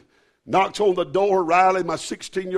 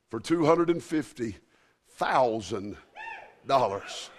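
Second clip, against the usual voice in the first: hushed awe; 7 semitones lower, 5 dB quieter than usual. Acted. Reveals check amount, hushed.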